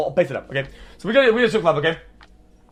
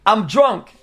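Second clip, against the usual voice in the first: defensive protest; 5 semitones higher than usual. Real, not acted. Defending himself to the audience.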